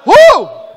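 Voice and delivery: high, loud "hu!" shout; explosive warrior yell; war cry. Shown as a demonstration. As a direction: lead the crowd in a battle cry. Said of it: "Dê um grito de guerra aí".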